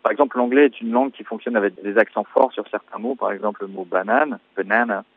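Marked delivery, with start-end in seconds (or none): 4.6-5.0 "banana" stressed in the middle, on the second syllable; English banana with the accent on "na" in the middle. Shown as a demonstration. Musician citing English word stress, "banana" accented mid-word. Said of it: "avec l'accent au milieu sur la deuxième syllabe".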